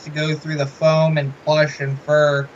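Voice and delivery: talking muffled through a mask. Real, not acted. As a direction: voice muffled behind foam and fur. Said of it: "I probably sound like a muffled mess".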